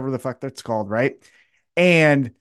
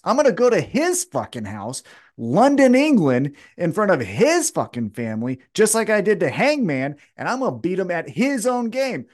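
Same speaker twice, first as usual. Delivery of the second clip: defiant challenge, pitched up; Swerve; 5 semitones higher than usual. Acted. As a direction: lay down a mild acted challenge. Acting Swerve issuing a challenge.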